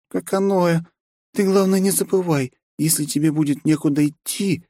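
high sly vampire voice; vampire lady voice. Acted. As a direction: purr like a vampire.

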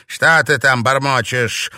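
loud, irritated demand; threatening witch's question; snapped challenge. Acted. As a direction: pounce on a muttered remark. Witch snaps at muttering novice.

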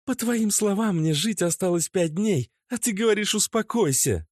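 high, sharp, accusing; girlfriend's angry outburst. A narrator's reading. Natasha furiously accuses her boyfriend Oleg. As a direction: lash out at him.

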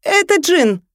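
выпалить фразу, задержав дыхание, высоко и громко; разом выдохнуть слова после задержки дыхания; выпалил на одном дыхании. Acted. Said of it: "задержал дыхание и выпалил". (выпалил, задержав дыхание)

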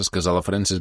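ordinary delivery, nothing marked

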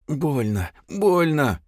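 a touch of rasp as he writhes; hoarse cry of pain. A narrator's reading. Parень stonet from pain, voice rising and hoarse. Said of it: "хрипел парень".

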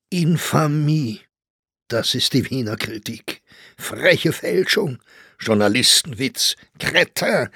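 indignant outburst. A narrator's reading. Writers passing round a hostile review, indignant. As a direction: exclaim in offended disbelief. Outraged exclamations over the review.

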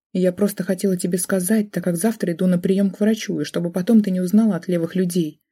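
usual speaking voice

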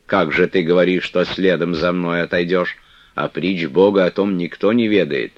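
повыше и погромче, наставительно; игуменья поучает сурово; строгая игуменья. Acted. Манефа наставляет Флёнушку. (игуменья Манефа наставляет Флёнушку, строго)

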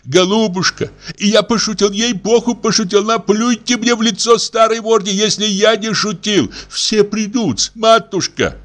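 pleading. Acted. Okurkin begs forgiveness.

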